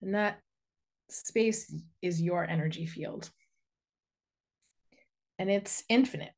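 unhurried guiding voice with long pauses; guided meditation. Real, not acted. Inviting listeners to send a cord into the earth, guided meditation. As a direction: lead them gently through grounding, phrase by phrase.

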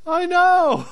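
high, loud overblown outrage; exaggerated voice. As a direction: ham up the indignation, way over the top. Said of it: "That's why I'm using this exaggerated voice".

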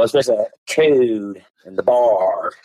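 hammed-up stress on code and bar; playful exaggerated emphasis; mock emphasis. Shown as a demonstration. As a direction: punch code and bar so they stand out. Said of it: "I'm making fun of 'em, making it stand out".

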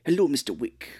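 smooth formal concierge voice, lightly done; Lance Reddick impression. Podcaster imitating Lance Reddick's greeting, formal concierge voice. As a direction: greet him like a stiff hotel manager. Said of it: "he kinda talks like that in Lost".

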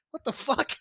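high-pitched baffled imitation; mock bafflement. Mimics the baffled dog.

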